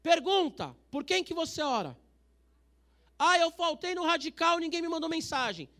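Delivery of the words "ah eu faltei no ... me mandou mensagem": mock complaining churchgoer. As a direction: imitate a sulky member. (imitando um fiel reclamão)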